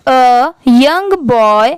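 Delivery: slow, deliberate read-aloud for a class; teacher reading very slowly, one word at a time; slow dictation reading. Shown as a demonstration. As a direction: read each word very slowly for pupils to repeat. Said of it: "आप भी मेरे बाद repeat करिए".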